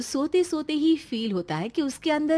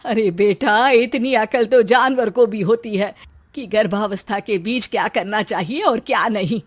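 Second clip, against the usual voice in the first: angry scolding; 6 dB louder than usual. Acted. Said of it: "गुस्सा आ जाता है और वो उसको बहुत सुनाती है".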